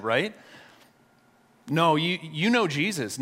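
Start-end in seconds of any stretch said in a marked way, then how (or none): 1.7-3.2 higher, insistent acted accusation; retold accusation. Preacher voicing servant girl confronting Simon, mildly accusing. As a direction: lightly play someone who has recognized a face.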